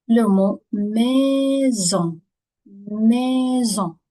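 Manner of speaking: maison said slowly, S buzzed as Z; S sounding as Z. Shown as a demonstration. Teacher slowly modelling maison with a Z sound. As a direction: maison as /mɛzɔ̃/, stretching the Z. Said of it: "on prononce le S comme le Z".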